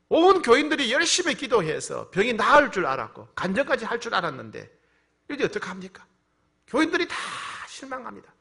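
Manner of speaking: loud, high retold complaint; anguished protest. Pastor tells God the church had prayed, loud protest.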